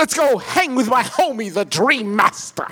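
Tim Curry impression. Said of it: "an impeccable Tim Curry".

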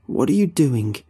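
angry. A narrator's reading. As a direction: snap the question at him. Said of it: "Kyle says angrily".

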